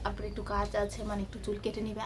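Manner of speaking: soft secretive aside; speaking softly. Real, not acted. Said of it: "আস্তে আস্তে বলছি কেন".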